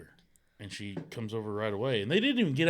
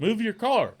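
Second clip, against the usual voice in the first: higher, louder mock order; retold angry demand; 8 semitones higher, 6 dB louder, slower than usual. Husband orders the neighbor to move, loud mock demand.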